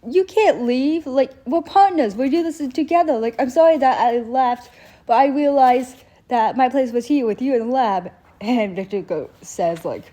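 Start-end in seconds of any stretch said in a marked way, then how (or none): 0.1-8.1 much higher and louder pleading; pleading Jace. Retold or imitated. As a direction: beg him not to leave, pitched high. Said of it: "and Jason's like".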